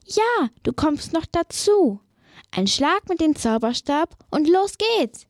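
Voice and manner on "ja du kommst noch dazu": higher, put-on witch voice; cheerful witch inviting the bird aboard; witch calling out. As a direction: call out as the friendly witch. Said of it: "Die Hexe ruft".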